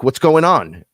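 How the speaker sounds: high, loud, incredulous question; retold loud bewilderment. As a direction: call it out as if reenacting sudden confusion. Retelling alarmed reaction to demon panic.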